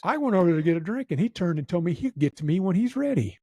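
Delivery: mildly indignant Marine imitation; a touch of outraged complaint; mad drill sergeant. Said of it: "he was mad".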